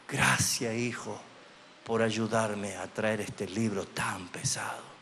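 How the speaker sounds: father whispering thanks to his small son; tender father. Retold or imitated. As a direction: thank the little boy gently, barely voiced.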